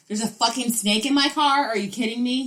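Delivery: exasperated quote, played up; mock outrage. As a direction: imitate someone incredulous and fed up. Acting out boyfriend's outburst over lost snake.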